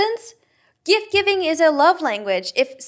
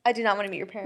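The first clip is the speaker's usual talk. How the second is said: drops lower and much softer the second time; quiet repeat; 5 semitones lower, 8 dB quieter, much faster than usual. Real, not acted. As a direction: mutter it again under the breath. Repeats the line for emphasis.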